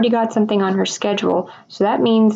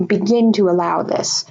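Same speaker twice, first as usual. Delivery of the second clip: yelling. Shown as a demonstration. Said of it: "This person's, like, yelling at somebody".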